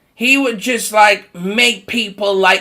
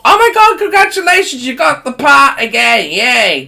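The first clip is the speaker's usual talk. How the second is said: sarcastic congratulations; 3 semitones higher than usual. Retold or imitated. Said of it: "you know".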